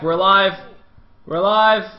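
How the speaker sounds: high, loud triumphant cry; jubilant relief. Real, not acted. Caster as the stream returns, jubilant. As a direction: shout the good news.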